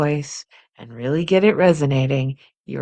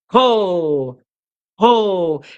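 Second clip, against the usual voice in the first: chest ho; 3 semitones higher, 4 dB louder than usual. Shown as a demonstration. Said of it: "Resonate from the chest".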